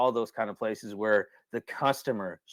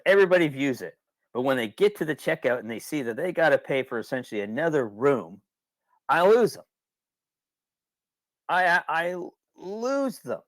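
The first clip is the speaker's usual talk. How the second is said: imitating the cabin owner; 4 semitones higher than usual. Cabin owner complaining, retold.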